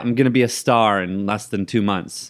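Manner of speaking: cocky, upbeat boast; overconfident. Retold or imitated. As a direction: brag like stardom is certain. Retold overconfident self.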